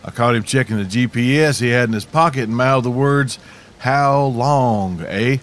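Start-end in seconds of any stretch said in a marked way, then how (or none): 3.8-5.4 lightly put-on Canadian accent; a touch of Canadian, ending on a questioning "eh"; mock Canadian accent. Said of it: "in my best Canadian accent".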